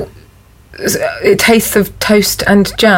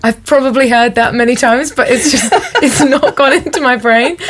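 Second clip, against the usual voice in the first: amused, giggly self-excuse; laughing; 3 semitones higher than usual. Real, not acted. Contestant excusing a forgotten tagline, laughing as they talk. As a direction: explain it through a laugh.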